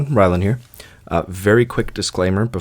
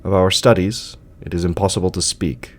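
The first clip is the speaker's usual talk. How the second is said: measured, solemn literary reading with deliberate pauses; story narration. A narrator's reading. Narrator reading Lovecraft's tale of sleep to listeners, solemn story narration. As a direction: read it as a grave gothic tale, phrase by phrase.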